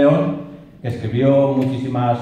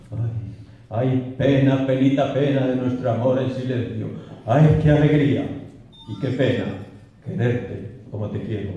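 poem recitation; 2 semitones lower, 3 dB quieter than usual. Acted. The married lover sighs over secret love, mournful recitation. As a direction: lament it, letting the last words drop away.

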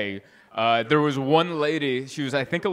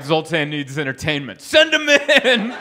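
booming universe; 5 dB louder than usual. Pretend. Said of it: "they're like".

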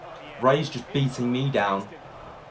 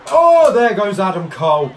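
excited; 8 semitones higher, 9 dB louder than usual. Real, not acted. Opponent eliminated, excited.

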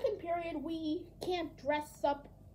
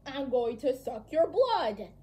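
vampire voice; 5 dB louder than usual. Retold or imitated. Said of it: "Even the vampire".

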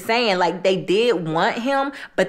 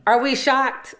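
higher, mock-gasping question; mock shock; 6 semitones higher than usual. Narrator teasing the audience about the fake watch, higher mock surprise. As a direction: pretend you can't believe it. Rhetorical aside to viewers.

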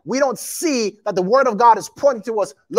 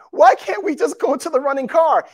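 higher-pitched imitation of a crying girl; mock tearful plea; 4 semitones higher than usual. Preacher voices the crying girl fleeing a killer, mock tearful plea. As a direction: plead like a movie victim, half in earnest. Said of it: "she's crying".

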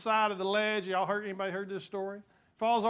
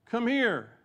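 loud, high royal summons; king calling out; 7 semitones higher, 5 dB louder than usual. Acted. King summoning the men from the furnace, loud and high. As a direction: call them out of the fire like a king. Reading king's call from Bible.

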